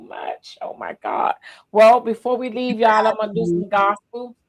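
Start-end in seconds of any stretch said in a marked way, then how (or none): 0.1-1.4 whispered. Real, not acted. Host overwhelmed at sign-off.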